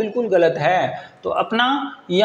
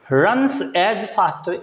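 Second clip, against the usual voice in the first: "runs as faster" drawn out word by word; slow stress on runs as faster; much slower than usual. Shown as a demonstration. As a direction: spell out "runs as faster" slowly. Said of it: "अब यहाँ देखना है आपको".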